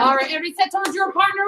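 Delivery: fast, loud instructor call; loud command. Real, not acted. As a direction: bark the setup fast. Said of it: "with a loud".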